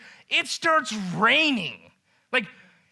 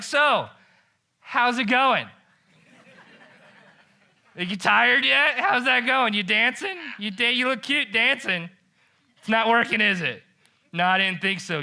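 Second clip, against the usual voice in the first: taunting. Retold or imitated. Elijah heckles the prophets of Baal at noon, taunting. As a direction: mock-friendly taunt. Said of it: "began to taunt them".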